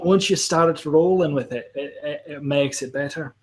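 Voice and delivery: Scottish accent with rolled Rs. Shown as a demonstration. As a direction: keep a Scottish accent rolling along. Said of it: "That was really good".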